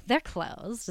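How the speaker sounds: dull, bored "They're closed". Retold or imitated. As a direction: repeat the clerk's flat "They're closed". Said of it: "is the way she said it".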